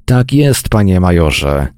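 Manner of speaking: usual speaking voice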